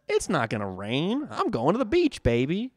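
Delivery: breezy, upbeat, high on beach; carefree optimist. Retold or imitated. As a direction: toss it off like a happy optimist. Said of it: "optimistic says".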